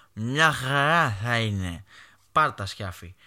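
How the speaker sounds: put-on slow, drunken brush-off; acted drunk. Drunk son answering his angry mother, slow mock-drunk voice. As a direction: play the drunk son waving it away. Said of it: "εγώ να είμαι μεθυσμένος".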